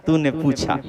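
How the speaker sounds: usual speaking voice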